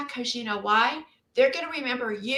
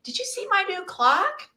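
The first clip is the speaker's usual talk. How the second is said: cheery vendor pitch; 9 semitones higher than usual. Pretend. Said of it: "Stand out there and say".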